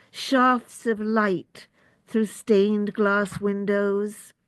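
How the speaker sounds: measured recital, pausing after each phrase; deliberate, evenly paced poem reading; poetry reading. Acted. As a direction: read it as verse, image by image. Reads own poem aloud.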